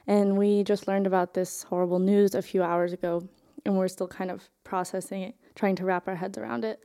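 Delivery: trembling, holding back tears; shaky voice. Real, not acted. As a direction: voice shaking with grief. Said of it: "my voice is shaky".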